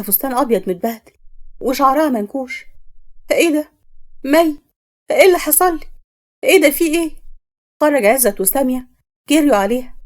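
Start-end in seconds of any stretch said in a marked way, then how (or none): 3.3-7.1 shocked. Acted. Sister shocked at dishevelled Mai.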